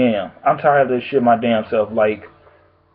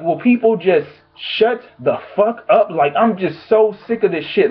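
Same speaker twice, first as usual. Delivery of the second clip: exasperated; 4 semitones higher than usual. Real, not acted. Exasperated rant.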